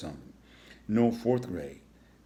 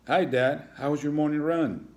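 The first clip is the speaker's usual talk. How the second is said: put-on high, loud, bright-eyed kid; eager child; 6 semitones higher, 5 dB louder than usual. Son greeting his runner dad, higher and eager. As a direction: greet him like your hero.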